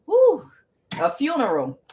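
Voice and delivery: high, loud woo; a sudden loud cry of glee; reacting to a funeral card with a high loud whoop; excited whoop. Real, not acted. Reacts to the card she drew.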